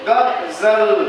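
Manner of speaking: गजल said slowly with a buzzing Z for ज. Shown as a demonstration. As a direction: let the Z ring in गजल. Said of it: "झंकार आ रहा है".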